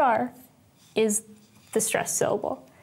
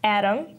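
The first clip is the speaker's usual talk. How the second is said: "Atom" with the weight on "At"; strong "At", light "om" in "Atom"; stress on first syllable. Shown as a demonstration. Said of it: "with the first syllable being stressed".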